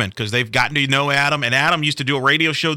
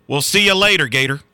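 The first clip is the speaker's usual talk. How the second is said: home run call. Retold or imitated. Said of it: "That, that's his home run call".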